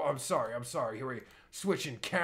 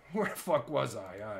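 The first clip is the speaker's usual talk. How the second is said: usual speaking voice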